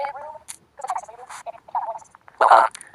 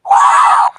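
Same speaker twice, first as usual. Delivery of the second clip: excited shout; 11 dB louder than usual. Real, not acted. Shouts at timer.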